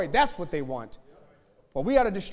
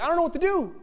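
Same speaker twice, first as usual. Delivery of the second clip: much higher, louder, bewildered; confused reader voice; 12 semitones higher, 7 dB louder, faster than usual. Pretend. Confused NIV reader in church, much higher and bewildered. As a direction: play the lost reader. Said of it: "and they're like".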